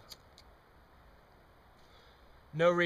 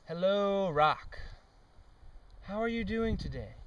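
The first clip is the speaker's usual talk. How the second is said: mock friendly greeting; 4 semitones higher than usual. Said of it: "let's do something positive".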